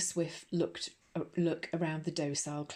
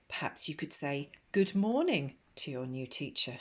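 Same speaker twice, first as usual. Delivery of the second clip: arch. Acted. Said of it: "with massive archness".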